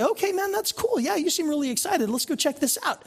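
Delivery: a friend brushing off the gospel, casually. Retold or imitated. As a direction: shrug it off like a laid-back buddy. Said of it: "They'll just say".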